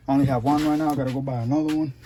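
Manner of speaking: breathless and panting; out of breath. Real, not acted. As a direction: talk between quick breaths. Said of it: "I'm out of breath".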